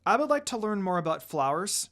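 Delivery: lightly voiced little girl, keen to learn; mild excitement. Little Rin telling Ayame she wants to learn, eager. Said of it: "Rin said excitedly".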